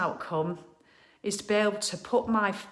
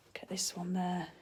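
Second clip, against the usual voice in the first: whispering; 7 dB quieter than usual. Real, not acted. Showing decorations, hushed.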